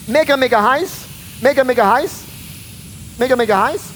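loud repeated hype, pushed out hard; loud preaching. Acted. Preacher shouting to the congregation about the furnace, loud. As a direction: hammer the heat home to the crowd.

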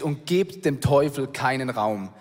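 gebt said slowly and weighted; stress on gebt. Shown as a demonstration. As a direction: lean on the word gebt, read slowly. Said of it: "das interessante Wort hier ist gebt".

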